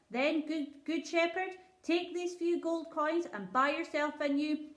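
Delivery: a king asking kindly but distracted; lightly voiced king. King offers gold coins.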